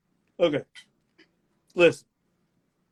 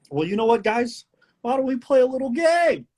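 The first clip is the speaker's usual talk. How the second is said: game-show host; 10 semitones higher than usual. Acted. Host invites everyone to play, game-show delivery. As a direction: tease the game like a quiz host. Hosts a mock quiz game.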